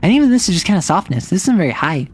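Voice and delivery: high head voice, sliding back down; high soft voice. Shown as a demonstration. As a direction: start as high as is comfortable, then let it sink. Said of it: "can't go much higher than this".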